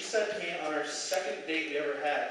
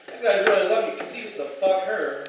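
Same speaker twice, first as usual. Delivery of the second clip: crude inner thought; 3 semitones higher, 7 dB louder than usual. Retold or imitated. Crude guy voicing inner thought.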